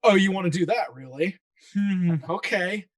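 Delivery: mock wary GM going along with it; hmm, a GM humoring a wild plan; skeptical GM. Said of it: "me as a G M, I'll be like".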